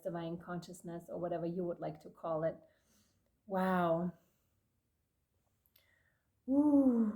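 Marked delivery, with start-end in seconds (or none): 3.5-7.1 breathy ooh of awe; awed whisper. Real, not acted. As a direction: whisper it in amazement. Awed at the card.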